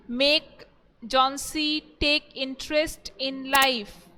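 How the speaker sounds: halting word groups, each set apart; teacher spacing words for note-takers; dictation. Acted. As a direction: dictate the question piece by piece. Dictates question to students.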